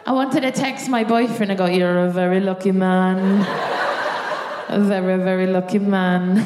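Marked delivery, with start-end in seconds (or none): 1.7-6.4 smug boast. Retold or imitated. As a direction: savour every word like a proud brag. Mock boast to her boyfriend.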